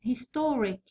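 هيستوريك with the middle 'to' stressed. Shown as a demonstration. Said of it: "الثاني من الأخير هو تو".

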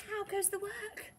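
high-pitched farmer's call. A narrator's reading. Farmer calling to the tired duck, high call.

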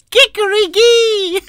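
high loud rooster crow, slow, laughing; laughing mock rooster, high and loud; rooster call. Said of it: "the rooster goes".

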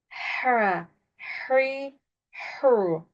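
"Her, hurry, hur" with breathy h and in-between thin vowels; short model syllables "Her, hurry, hur"; "Her, hurry, hur" from mid-throat, vowels kept thin. Shown as a demonstration. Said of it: "İnce harfler u, ü arası".

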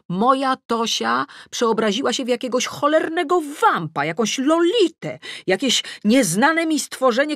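rising outrage. Acted. Mother ranting inwardly about her daughter's new look, building outrage. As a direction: let the mother's outrage build until it bursts.

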